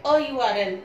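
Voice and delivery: अ said as a short uh, not ए; short a before URL. Shown as a demonstration. Teacher showing students the article, short uh sound. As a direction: say अ as a brief schwa before यू R L. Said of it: "इसको ए नहीं कहते, अ कहते".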